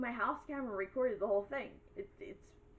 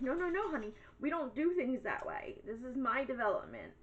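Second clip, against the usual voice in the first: sassy put-down; 3 semitones higher than usual. Retold or imitated. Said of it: "And I'm like".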